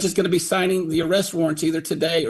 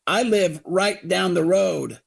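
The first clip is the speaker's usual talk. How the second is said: mock the mayor's offhand reply; breezy mayor; 3 semitones higher, slower than usual. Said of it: "He goes".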